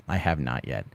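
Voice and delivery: an under-the-breath second answer; quiet repeat. Real, not acted. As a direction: drop it to a murmured echo.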